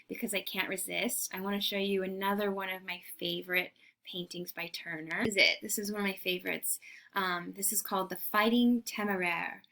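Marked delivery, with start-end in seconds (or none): 0.1-5.2 whispered aside. Real, not acted. Confiding aside to class.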